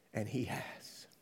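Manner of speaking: soft unvoiced whisper; a mother's quiet wonder. Mother's tearful answered prayer.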